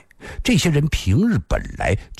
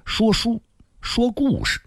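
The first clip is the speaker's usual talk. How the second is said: put-on much higher-pitched girlish voice; braided girl; 12 semitones higher than usual. A narrator's reading. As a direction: answer high as a young storytelling girl. Girl character answers the youth. (高高的小姑娘嗓音)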